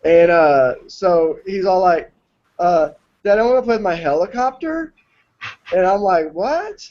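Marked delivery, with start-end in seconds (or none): 3.2-4.9 lightly imitated little British kid; Peppa Pig accent. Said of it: "sounds like he watches Peppa Pig". 6.3-6.9 high, soft, rising retold "what?"; baffled. Baffled dad reacting to son's accent.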